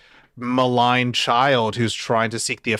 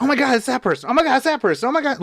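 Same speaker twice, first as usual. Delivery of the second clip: high, rising excited squeals; stacking "Oh my God" higher each time; excited recognition; 11 semitones higher, much faster than usual. Retold or imitated. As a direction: gush as each familiar face appears. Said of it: "You're like".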